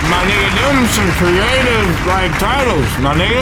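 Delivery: talking with food in mouth; chewing while talking; mouth full. Real, not acted. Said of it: "My bad if I got food in my mouth".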